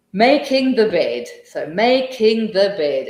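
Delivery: "making" stressed clearly, slow and deliberate; syllable stress demo. Shown as a demonstration. Teacher showing students syllable stress, slow deliberate "making". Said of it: "breaking words down to syllables".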